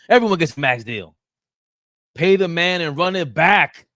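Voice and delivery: mock hype. Host mocking generous contracts with loud hype. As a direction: sell it like a talk-show host.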